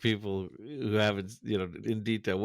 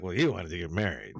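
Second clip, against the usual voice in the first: imitating calm, quick reasoning in a lowered pitch; calm explaining; 4 semitones lower, faster than usual. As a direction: toss it off low and matter-of-fact. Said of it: "he's calm and he's trying to explain".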